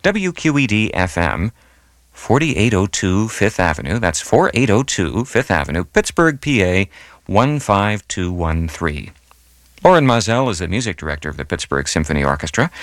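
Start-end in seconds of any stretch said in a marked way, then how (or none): 0.0-9.1 deliberate dictation, slowing down on the final digits; careful address readout. Real, not acted. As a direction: spell out letters and digits with measured pauses. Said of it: "here's the address again".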